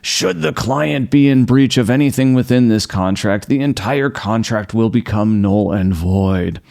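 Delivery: pompous contract reading voice; mock legalese. Creator mocks amateur contract, reading its clause pompously. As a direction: read the clause like stuffy legal boilerplate. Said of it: "with a sentence like".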